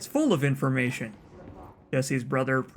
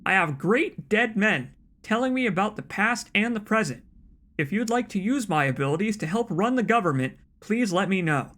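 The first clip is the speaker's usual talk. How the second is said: lightly acted letter-writer, higher pitch; earnest letter writer; 3 semitones higher than usual. Letter writer telling officials of presidents' spirit guides, earnest. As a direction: read it as a sincere, insistent crank. Resumes reading the letter in character.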